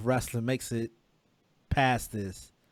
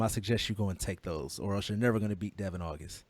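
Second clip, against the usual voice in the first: lower, softer wrestling promo voice; Superstar Billy Graham impression; 4 semitones lower, 6 dB quieter than usual. Host doing a wrestling legend's promo, lower and softer. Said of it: "like, Superstar Billy Graham".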